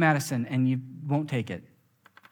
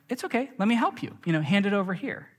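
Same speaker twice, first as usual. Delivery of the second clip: higher, fast coaxing mom; soothing mom; 5 semitones higher, faster than usual. Retold or imitated. Mom offering to help her crying child, quick coaxing. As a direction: coax the crying child gently, pitched up. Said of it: "my mom was like".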